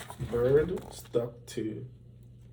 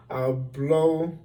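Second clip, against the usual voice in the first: shouted; 3 semitones higher, 4 dB louder than usual. A narrator's reading. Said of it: "he shouted".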